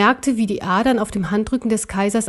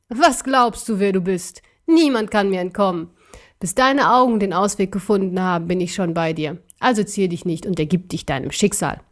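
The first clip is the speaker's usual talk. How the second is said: taunting emperor. Acted. Emperor taunts the fleeing bear.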